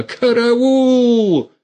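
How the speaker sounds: very high, loud scream; yelling for help. A narrator's reading. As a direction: scream for help at the top of her voice. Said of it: "заорала". (истошный крик «караул»)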